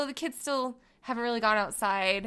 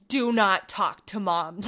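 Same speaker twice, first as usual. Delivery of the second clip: put-on slow solemn kid; 5 semitones lower, slower than usual. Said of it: "So, like".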